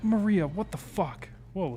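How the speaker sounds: high startled outburst; surprised. Real, not acted. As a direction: blurt it out in shock. Startled by game character.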